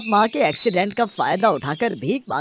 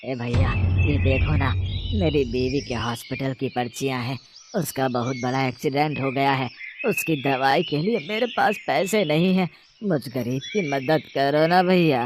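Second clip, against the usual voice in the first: fake begging; 5 semitones lower than usual. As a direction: play the pitiful beggar to con him. Drunk father begging stranger for money.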